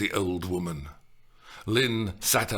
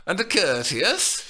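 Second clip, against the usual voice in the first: deliberate delaying; 8 semitones higher, 5 dB louder than usual. A narrator's reading. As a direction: stall on purpose. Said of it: "quite deliberately delaying".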